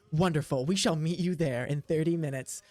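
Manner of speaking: lightly voiced eloquent orc, politely formal; a hint of a well-spoken orc. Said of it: "the one that is surprisingly eloquent".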